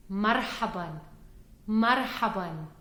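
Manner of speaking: marhaban slow and careful; Arabic hello. Shown as a demonstration. Teacher modelling hello for students to repeat. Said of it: "Repeat with me".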